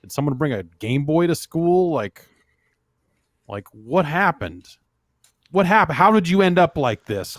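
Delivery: hammed-up voice for the emailer; mock excited reading. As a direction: read it like an excited fan asking. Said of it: "Chris from Chicago writes in and says".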